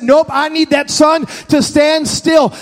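slow, shouted demand; Joshua's command. Retold or imitated. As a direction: command the sun to halt. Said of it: "He said".

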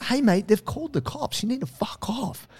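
high mock stern order; hammed-up get-lost order; firm warning. Arborist telling the bro police are coming, stern. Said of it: "she's like".

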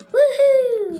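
high whoop with a laugh; excited cheer. Acted. Kids cheer becoming farmers.

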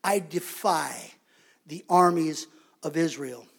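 a hint of a low, slow giant; giant's taunt. Giant defies the armies of Israel, lightly voiced low taunt. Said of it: "The giant said".

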